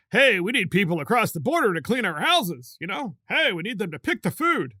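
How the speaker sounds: lightly mocking elitist quote; mockingly breezy, self-serving request; mock elitism. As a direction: parody an entitled elitist's demands. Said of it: "adopting the Democrat Party's elitism".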